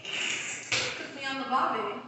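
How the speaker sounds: slow imitation Australian; mock Australian accent. Echoing a friend's barbie joke, slow mock Australian accent. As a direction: echo the Australian accent, drawn out. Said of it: "You like the Australian accent?".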